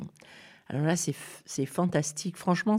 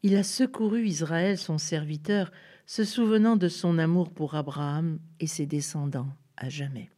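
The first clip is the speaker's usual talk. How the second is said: tender smile. Acted. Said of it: "dans un sourire plein de tendresse".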